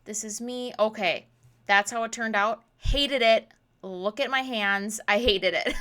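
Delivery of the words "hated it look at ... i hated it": loud. Real, not acted. Disliking her craft result.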